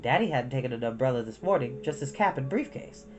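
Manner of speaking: ordinary delivery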